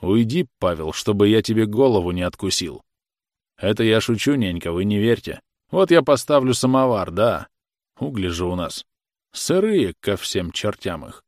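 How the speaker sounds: a touch of gloomy mockery; Khokhol, lightly voiced, joking from the kitchen; gloomily mocking. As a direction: tease darkly, half joking. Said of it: "сумрачно насмешливый".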